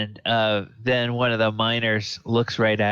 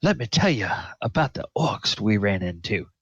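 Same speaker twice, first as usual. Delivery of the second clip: storyteller's voice gradually fading off; halting tale to friends, trailing into the distance; voice dying away. Acted. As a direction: let the tale fade as listeners leave. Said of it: "all hear his voice dying away".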